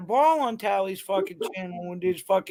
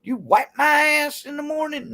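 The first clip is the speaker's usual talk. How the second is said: higher, raised defiant demand; a shouted comeback, pitched up; mock shout; 7 semitones higher than usual. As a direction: throw it back at them like a challenge. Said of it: "the old saying goes".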